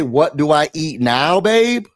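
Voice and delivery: slow quoted text, pitch jumping up on "babe"; quoted text message. Retold or imitated. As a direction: repeat the text slowly, lifting the last word. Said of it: "and they say".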